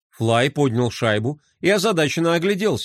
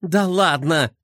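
ворчливо; slower than usual. Acted. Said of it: "проворчала Глория".

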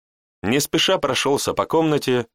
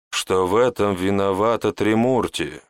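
ordinary delivery, nothing marked

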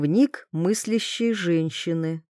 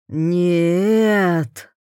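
shout. A narrator's reading. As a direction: cry out no, only lightly raised. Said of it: "крикнул Петя".

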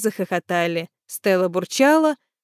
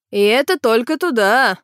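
laughing; 3 semitones higher, 5 dB louder than usual. A narrator's reading. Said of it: "заметил, смеясь, водитель".

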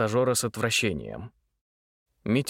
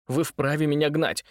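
rattling off fast; 3 semitones higher than usual. Acted. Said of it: "затараторил он".

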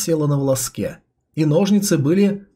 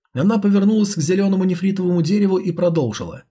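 usual speaking voice

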